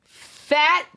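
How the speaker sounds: high, slow, offended outburst; hammed-up outrage at being called fat; mock indignant. Client snapping back at the waxer, mock indignant.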